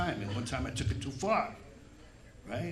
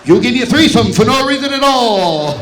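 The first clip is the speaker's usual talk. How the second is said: hypnotist voice; 3 semitones higher, 12 dB louder than usual. Retold or imitated. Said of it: "Like I was a hypnotist".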